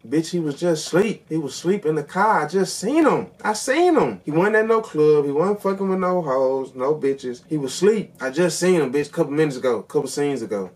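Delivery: loud, high, worked-up yelling; yelling at phone. Retold or imitated. Viewer defending Trent to the movie, high indignant yelling. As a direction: shout in protest at the screen. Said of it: "I'm yelling at, at my phone like".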